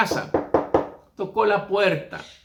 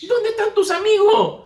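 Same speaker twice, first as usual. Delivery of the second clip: surprised; 5 dB louder than usual. Acted. Wife surprised the friends left.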